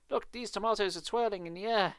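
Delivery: high, loud and urgent; excited cry. Acted. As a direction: tell her in a rush of amazement. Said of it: "Mister Evander cried".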